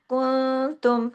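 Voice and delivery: slow कुंतुम, the n a held nasal hum; ikhfa with ghunna. Shown as a demonstration. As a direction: hide and stretch the n of कुंतुम. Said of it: "इख्फा हकीकी गुन्ना कामिला". (कुंतुम में इख्फा, पूरा गुन्ना)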